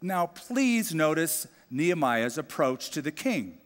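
normal talking voice

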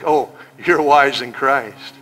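slow, drawn-out mock praise; sarcastic. Shown as a demonstration. Preacher mocking the proud church, slow sarcasm. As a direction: say it like you don't mean it. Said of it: "he's being sarcastic".

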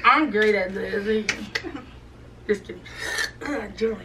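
lips stretched. Real, not acted. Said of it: "her jaw is like hurting".

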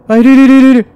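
high alarmed shout; hit hard crying out. Real, not acted. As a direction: cry out as it appears. Spots enemy suddenly.

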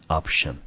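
option stressed on OP; first-syllable stress. Shown as a demonstration. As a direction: model option with the stress up front on OP. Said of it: "重音节放在第一个音节". (option重音念在第一音节)

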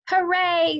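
high, loud happy cheer; a child's loud gleeful hooray; excited cheer. A narrator's reading. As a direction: cheer with delight. Excited first day.

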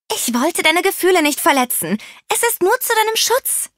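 high-pitched urgent calling. A narrator's reading. Rosie explains herself to offended Gizmo, calling out high. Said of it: "rief Rosie".

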